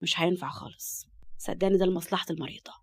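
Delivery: a touch of doctor's calm. Acted. Doctor reassuring Murad after surgery.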